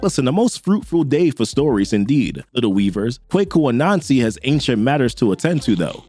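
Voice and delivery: a hint of an ancient spider god addressing his heralds; Anansi. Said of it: "Anansi pops back up and he's like".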